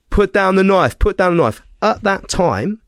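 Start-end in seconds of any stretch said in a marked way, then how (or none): 0.1-1.6 retold commanding shout. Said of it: "he's just gone".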